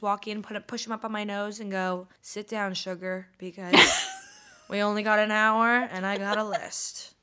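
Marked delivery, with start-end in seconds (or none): 2.2-7.1 sassy therapist. Pretend. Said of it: "put on fake glasses ... and go".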